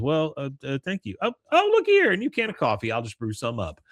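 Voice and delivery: flattered Peggy covering, voice leaps up; Peggy flustered. Retold or imitated. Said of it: "Peggy goes".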